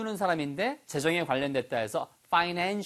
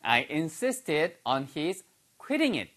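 each word spaced out slowly for learners; slow English model read for students to repeat; slow model sentence; much slower than usual. Shown as a demonstration. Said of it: "your turn".

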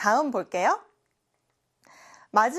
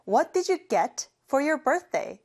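slow model sentence; 3 semitones higher, much slower than usual. Shown as a demonstration. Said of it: "제가 방금 말한 문장에".

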